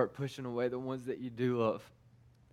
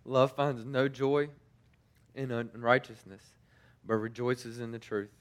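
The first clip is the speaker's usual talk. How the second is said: slow, measured reading of the verse; scripture recitation. Acted. Preacher reading First Corinthians to his congregation, slow and measured. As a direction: let each line land slowly, like a blessing.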